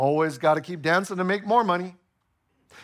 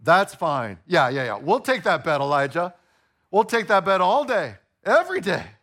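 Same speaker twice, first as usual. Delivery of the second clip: cocky crowd. Pretend. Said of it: "all the people answered".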